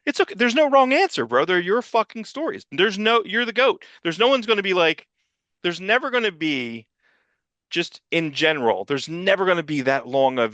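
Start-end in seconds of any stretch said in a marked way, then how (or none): 0.0-6.1 exasperated pleading. Real, not acted. Pleading with Claremont, high pitched.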